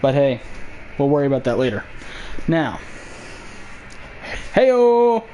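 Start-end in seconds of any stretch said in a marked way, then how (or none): 4.5-5.2 excited. Real, not acted. Sudden loud greeting.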